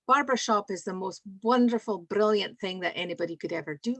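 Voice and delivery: broad Aberdeen accent put on for a laugh. Asked by Joey and Yvonne, she puts on an Aberdeen accent. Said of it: "You mean you want me to put on an Aberdeen accent?".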